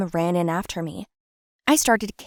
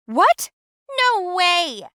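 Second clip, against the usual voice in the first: much higher, louder shocked protest; outraged disbelief; 11 semitones higher, 4 dB louder, much slower than usual. Acted. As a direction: refuse it point-blank. Protests father's decree.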